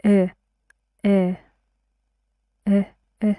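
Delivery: short, separate "uh" as a vowel demo; isolated schwa sound. Shown as a demonstration. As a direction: sound out "uh" on its own, repeatedly. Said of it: "the phonetic symbol for the uh sound".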